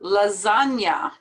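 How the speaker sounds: "Lasagna" ending in an open A sound; final A sound. Shown as a demonstration. Teacher explaining the ending to learners, carefully pronounced. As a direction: finish "Lasagna" on a clear "ya". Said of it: "sounds like there's an A at the end".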